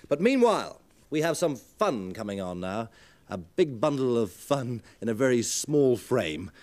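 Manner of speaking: excited. Real, not acted. Host introducing comedian.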